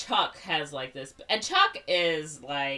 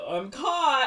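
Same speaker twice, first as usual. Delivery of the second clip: high, louder laughing cry; laughing gasp; 9 semitones higher, 7 dB louder than usual. Retold or imitated. Ariel caught by Reverend Shaw, high laughing yelp. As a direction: blurt it through a laugh.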